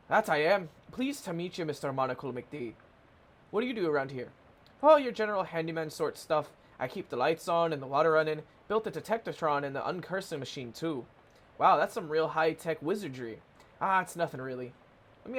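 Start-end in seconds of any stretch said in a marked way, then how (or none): 0.1-2.7 lightly voiced Scottish-Irish handyman; a hint of muddled Scottish or Irish; slightly Scottish-Irish accent. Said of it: "I made Charles slightly Scottish". 4.8-11.1 handyman with a light Scottish-Irish lilt; slightly Scottish-Irish accent. Acted. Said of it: "I made Charles slightly Scottish". 13.8-14.7 modest handyman, faint Scottish-Irish lilt; a hint of Scottish or Irish; slightly Scottish-Irish accent. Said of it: "I made Charles slightly Scottish".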